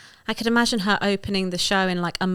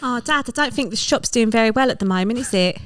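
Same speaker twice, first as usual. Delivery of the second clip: worried daughter; 3 semitones higher than usual. Acted. Daughter role in the act-out.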